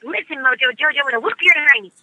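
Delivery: lightly voiced tough little girl; a hint of a feisty cartoon girl threatening a villain; mild tough-girl cartoon voice; Buttercup voice. Shown as a demonstration. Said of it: "Says things like".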